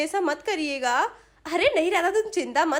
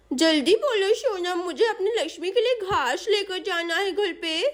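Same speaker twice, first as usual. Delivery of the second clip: lightly voiced child with babyish lisp; busy little girl; 3 semitones higher than usual. Chinki answers Sonam while carrying grass for her goat, hurried child voice. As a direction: play a small friend in a hurry.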